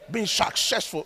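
lightly put-on American accent. Preacher playfully showing his congregation an American accent. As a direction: say it with mock American slushy s sounds. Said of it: "I always like my American accent".

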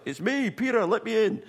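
high and loud through the door; urgent call. Retold or imitated. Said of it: "He's like".

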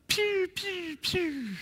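high playful laser-gun pew pew; mock pew-pew noises. Shown as a demonstration. Pastor mocking flashy prayers with a high pew pew. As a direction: zap it out like a toy laser. Mimicking prayer sound effects.

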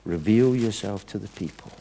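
softly spoken acted plea to God; quiet, understated prayer; simple prayer. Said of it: "a very simple prayer".

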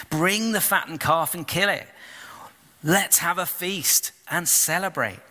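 quick, urgent joy, pitch climbing; eager fatherly command. Acted. Father orders servants for the feast, joyful urgency. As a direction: hurry the servants, overjoyed. Father welcomes son home.

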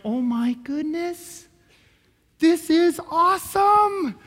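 slow, stretched-out wonder, building high; acted awe that swells and climbs; awestruck amazement. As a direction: draw it out, rising into amazement. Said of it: "you just have a new revelation of Jesus".

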